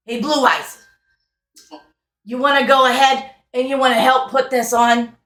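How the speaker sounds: lively carnival host, fast and eager; carnival barker. Acted. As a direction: hustle the players like a fairground barker. GM voices carnival NPC.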